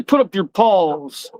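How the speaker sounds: high, mock-whiny dog's voice; playful pet voice for the dog; voicing the dog. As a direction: speak for the dog as if he complains. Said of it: "We'll say".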